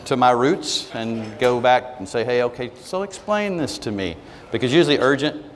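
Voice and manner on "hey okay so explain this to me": slow, easy Alabama drawl, lightly done. Retold or imitated. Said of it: "I typically go Alabama on them".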